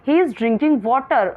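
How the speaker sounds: slow, clear classroom read; slow reading aloud. Shown as a demonstration. Teacher reading the question to her pupils slowly. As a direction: read each word out very slowly.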